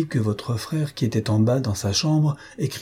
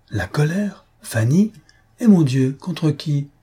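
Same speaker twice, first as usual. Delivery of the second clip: shocked questions; 5 semitones higher, slower than usual. Acted.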